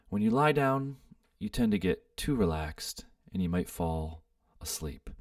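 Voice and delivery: soft, unhurried meditation guide with pauses; guided meditation. Real, not acted. Host guiding listeners to sit and breathe, guided meditation. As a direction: gently lead them into stillness, leaving space between phrases.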